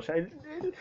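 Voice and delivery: high, loud, heated outburst about the villain; worked-up rant. Real, not acted. Reader fuming at the scoundrel, high and loud. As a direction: let the outrage spill over, climbing high.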